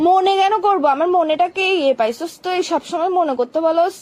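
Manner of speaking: angry scolding. Acted. Girlfriend rejecting his excuse, loud and angry. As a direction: snap back at him, loud.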